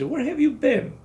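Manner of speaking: high, angry retold yell; mock sergeant shouting. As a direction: bark at him like a sergeant. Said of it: "the first sergeant cries".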